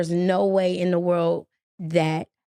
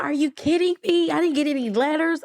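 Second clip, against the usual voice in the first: shocked disbelief; 8 semitones higher than usual. Retold or imitated. Arguing with landlord over eviction.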